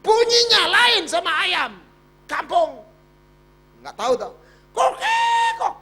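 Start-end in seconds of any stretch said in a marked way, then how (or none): 4.7-5.7 1 jungle fowl call. Retold or imitated. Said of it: "Ketok, ketok, ketok gitu".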